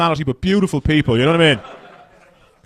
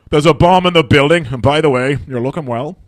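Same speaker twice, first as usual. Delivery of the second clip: charming Irish caller; 2 semitones higher, 5 dB louder than usual. Retold or imitated. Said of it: "they go".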